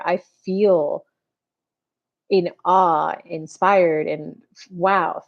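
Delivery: sincere, slowed-down appreciation; slow heartfelt thanks. Shown as a demonstration. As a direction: thank them like it truly changed you. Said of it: "Instead of".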